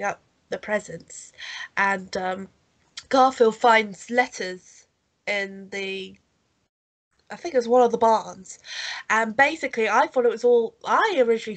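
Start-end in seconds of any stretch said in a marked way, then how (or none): 3.1-8.6 stuffy nose from a cold; nasally voice. Real, not acted. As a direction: talk through a blocked nose. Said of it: "By my nasally voice".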